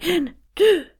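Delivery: high gasped count; inflating with each number; counted in-breath. Shown as a demonstration. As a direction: count upward on quick inhales. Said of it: "This time, four and eight".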